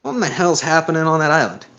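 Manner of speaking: attempted Southern accent, lightly done; a hint of Southern in the questioning; shaky try at a Southern accent. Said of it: "This is a southern accent".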